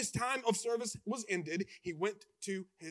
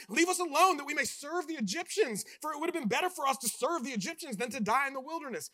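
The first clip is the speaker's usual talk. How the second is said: whining complaint; 4 semitones higher, 5 dB louder, faster than usual. Retold or imitated. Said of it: "people start whining and complaining".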